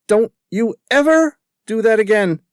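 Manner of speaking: furious shout. Acted. Woman shouts at David after he kisses her again, furious. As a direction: hurl it at him like the slap itself. Slaps him as hard as she could.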